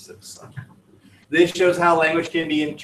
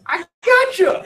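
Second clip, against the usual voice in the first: shouting; 8 dB louder than usual. Real, not acted. Insisting during classroom banter.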